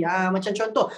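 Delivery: ordinary delivery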